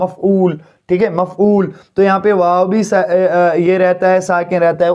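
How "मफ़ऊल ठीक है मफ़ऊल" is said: मफ़ऊल said clearly, मफ़ as one beat then ऊल; careful pronunciation. Shown as a demonstration. Teacher modelling the word for pupils, clearly. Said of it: "उसी के एतबार से आपको बता रहा हूँ".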